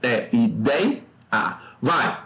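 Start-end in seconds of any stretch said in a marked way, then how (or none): 0.3-1.0 ideia slowly split i-dei-a; syllable by syllable. Shown as a demonstration. Teacher repeats the procedure on ideia, slow syllable division. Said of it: "de novo, mesmo procedimento".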